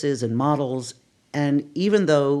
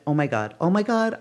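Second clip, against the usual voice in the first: mildly excited re-enactment, pitched up; higher, lightly thrilled exclaiming; retold excitement; 4 semitones higher than usual. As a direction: replay being giddy with news, lightly. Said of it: "bouncing off the walls".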